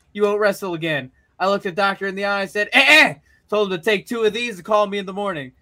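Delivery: lightly voiced rough wrestler promo, quick in places; Stone Cold promo. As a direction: taunt the champ, brash and cocky. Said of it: "your promo delivery for both of them was really good".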